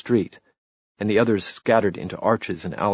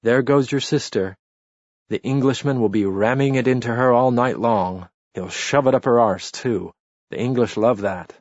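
higher, louder jeering shout; drunken taunt; 4 semitones higher, 6 dB louder than usual. A narrator's reading. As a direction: taunt the brother at full voice.

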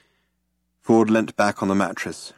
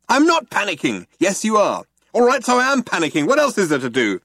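high, rising panicky protest; lightly voiced panic; 9 semitones higher, 3 dB louder than usual. A narrator's reading. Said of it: "Arthur panicking".

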